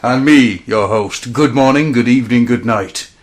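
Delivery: loud showman sign-off; ringmaster. Pretend. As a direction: finish the big top welcome. Closing the grand intro.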